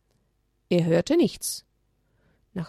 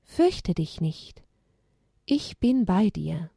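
inner angel voice; slower than usual. Acted. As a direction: comfort the frightened lamb. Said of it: "eine Stimme vernehmen durfte". (langsame, tröstende Engelsstimme)

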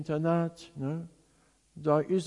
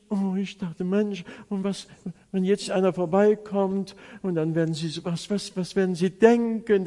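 mild flustered inner voice, stumbling on repeats; pensamientos apurados; 3 semitones higher, 4 dB louder than usual. Retold or imitated. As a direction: replay a touch of embarrassed alarm, building louder. Acted anxious thoughts about onlookers.

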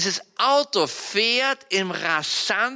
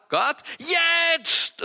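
father's call; 11 semitones higher, 3 dB louder than usual. Retold or imitated. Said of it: "Und dann sagt der Papa".

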